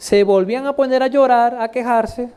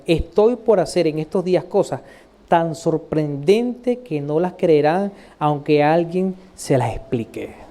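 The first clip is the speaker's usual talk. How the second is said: slow, low, solemn recitation; scripture reading; 3 semitones lower, slower than usual. Acted. God warns the prophet, slow solemn reading. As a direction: read God's words out deliberately, phrase by phrase.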